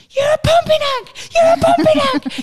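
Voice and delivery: loud, very high screeching insult; mock tantrum shriek; yelling toddler. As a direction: imitate a small child screaming at a parent. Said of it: "Josh is yelling at his dad".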